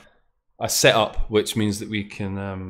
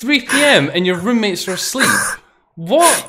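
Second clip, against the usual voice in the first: high-pitched, louder disbelief; incredulous; 10 semitones higher, 4 dB louder than usual. Real, not acted. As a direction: blurt it out, astonished. Mock shock at the late hour.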